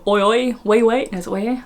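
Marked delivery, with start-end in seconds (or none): 0.1-1.1 mock Essex catchphrase, lifting in pitch. Host showing what she thinks of Essex, mock Essex. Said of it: "when I think of Essex". 1.3-1.6 higher mock Essex "oi". Host correcting her catchphrase, mock Essex accent. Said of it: "when I think of Essex".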